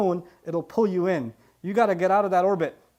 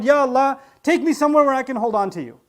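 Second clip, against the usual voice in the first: raised, pleading cry to Allah; calling out loud; 3 semitones higher, 6 dB louder than usual. Retold or imitated. Yusuf calling out to Allah, pleading loudly. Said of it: "screaming out loud".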